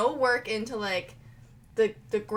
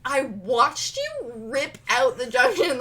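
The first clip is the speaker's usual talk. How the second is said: laughing indignant; 3 semitones higher, 7 dB louder, slower than usual. Retold or imitated. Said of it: "Mark was like".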